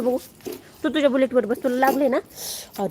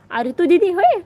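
surprised; 7 semitones higher, 7 dB louder than usual. Real, not acted. Mother playfully surprised at child.

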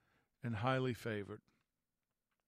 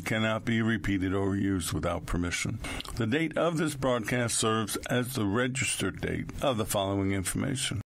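loud, brisk recorded announcement; disclaimer read; 4 semitones lower, 6 dB louder than usual. Acted. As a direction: read the legal notice like an announcer.

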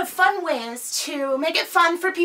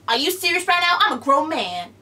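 Kevin Hart impression retry; 4 dB louder, faster than usual. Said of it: "that's all I'm gonna do of Kevin Hart".

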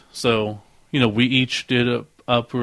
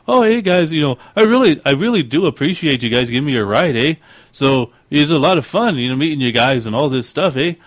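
put-on higher, lilting Canadian accent; the speaker's Canadian accent; 4 semitones higher, 4 dB louder than usual. New pal thanking the guys for a ride, Canadian accent. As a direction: imitate a friendly Canadian, tagging on "eh". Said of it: "That's the Canadian accent".

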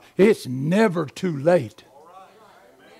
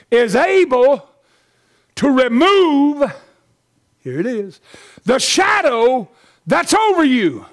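fervent preaching; 4 semitones higher than usual. Real, not acted. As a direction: drive it home to the congregation, phrase by phrase. Preaches at full force.

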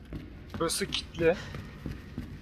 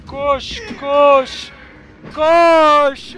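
higher, louder urgent commands; urgent urging; 6 semitones higher, 4 dB louder, much slower than usual. Real, not acted. Player urging himself to flee, urgent and rising. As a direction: push yourself to run. Running from a zombie.

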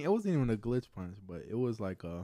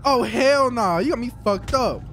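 loud outburst; 3 semitones higher, 5 dB louder than usual. Real, not acted. Reacting loudly in street fight.

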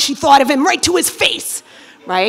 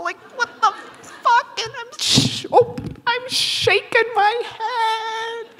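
higher, strained panic, cracking; panicked; 11 semitones higher, 4 dB quieter than usual. Acted. Comic with bug in ear, high panicked voice. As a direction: squeal it in alarm.

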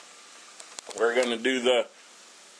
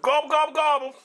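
playful gobble; 11 semitones higher, faster than usual. Acted. Playful gobbling while cooking.

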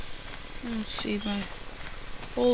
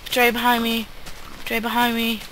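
scared horror game streamer; faster than usual. Real, not acted. Monster right behind them.

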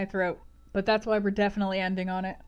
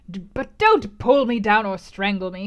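exasperated reply; 7 dB louder than usual. Acted. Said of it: "he replied".

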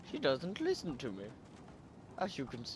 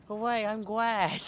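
put-on high, slow, cutesy anime girl; kawaii desu voice; 6 semitones higher, 5 dB louder, slower than usual. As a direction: gush like an excited anime fan. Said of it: "kawaii Desu voice".

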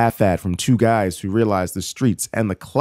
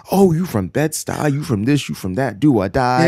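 mock-excited, rapid-fire questions of a hyped local; hyped-up imitation; 4 semitones higher than usual. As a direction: imitate someone getting excited over a shared neighborhood. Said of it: "and they get hyped. They get excited".

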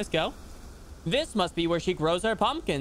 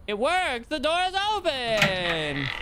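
excited; 5 semitones higher, slower than usual. Real, not acted. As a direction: celebrate the open door. Door opens in game.

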